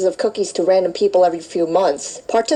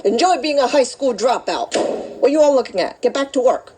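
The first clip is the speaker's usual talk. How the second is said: barking instructor; 6 semitones higher than usual. Acted. Instructor barks at class.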